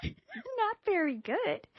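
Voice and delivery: high, very slow, drawn-out grumble; mock pouty reply; sulky. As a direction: sulk through every word.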